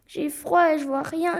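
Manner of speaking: put-on mild whining child; whimpering complaint.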